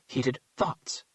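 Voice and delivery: "thoughts" stressed, calm. A narrator's reading. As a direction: lean on the word "thoughts". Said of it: "emphasizing the word thoughts".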